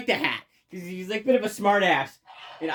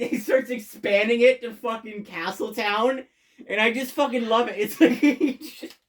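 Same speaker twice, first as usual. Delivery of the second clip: higher, laughing through delighted words; laughing gush; 5 semitones higher than usual. Real, not acted. Reviewer gushing to viewers about Milo, laughing.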